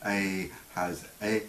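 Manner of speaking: long A, then E cut very short; long and short vowel. Shown as a demonstration. Teacher contrasting vowel lengths, long and short vowel. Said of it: "they come in long and short versions".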